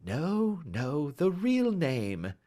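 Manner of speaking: gently, slow, kindly correcting; sweetly. Acted. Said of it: "said Holmes sweetly".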